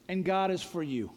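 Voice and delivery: usual speaking voice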